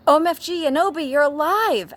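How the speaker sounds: very high, loud mock scream; hammed-up excited shriek. A narrator's reading. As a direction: squeal it in over-the-top amazement. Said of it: "screamed Vampire".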